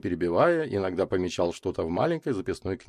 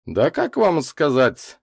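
slow, higher, noncommittal reply; restrained; 8 semitones higher, 5 dB louder, much slower than usual. A narrator's reading. Микульский answers Котов, restrained. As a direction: stretch it out, holding back. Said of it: "сдержанно ответил Микульский".

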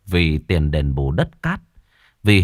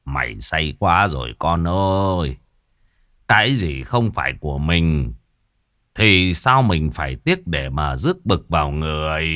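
sighing scold; 4 semitones lower than usual. Acted. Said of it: "thở dài mắng con".

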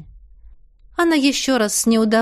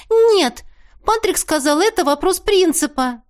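высокий резкий возглас; выше и громче на «Нет»; Теа перебивает; 7 semitones higher than usual. A narrator's reading. (Теа перебивает, выше)

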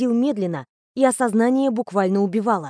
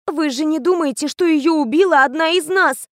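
higher voice, rising in horror; horrified; 6 semitones higher than usual. A narrator's reading. Riana asking the teacher, horrified and higher. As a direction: ask it appalled at the very idea. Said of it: "с ужасом уточнила Риана".

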